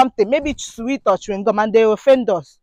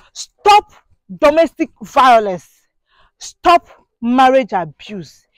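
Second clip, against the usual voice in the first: shouted plea; 3 dB louder, slower than usual. Real, not acted. Pleading with abusive husbands, loud cry. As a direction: call it out to the men.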